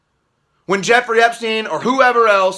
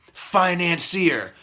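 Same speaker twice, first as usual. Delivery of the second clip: slow drawn-out Financier with a falling, scornful end; mocking the word; 3 semitones lower, 5 dB quieter, slower than usual. Repeating the media's label in slow scorn. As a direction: say Financier like a bad joke. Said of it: "financier, they say".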